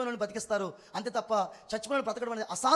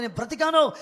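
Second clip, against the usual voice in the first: loud, raised cry of 'I'm alive'; joyful cry; 5 semitones higher, 8 dB louder than usual. Retold or imitated. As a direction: call it out like a survivor. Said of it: "అరవాలనిపిస్తా ఉంది". (గట్టిగా, పై స్థాయిలో అరుపు)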